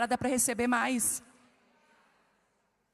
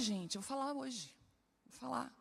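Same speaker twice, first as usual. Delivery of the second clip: confiding aside; 9 dB quieter than usual. Real, not acted. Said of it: "confiding aside".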